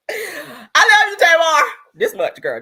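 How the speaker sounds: loud, high, drawn-out wail; mock tearful cry. Declaring love to the singer, mock-sobbing wail. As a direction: cry it out slowly with overdone devotion.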